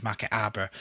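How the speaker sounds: lightly demonstrated Harborough accent. Shown as a demonstration. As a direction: drop the H, Harborough style. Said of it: "Harborough has an accent in itself".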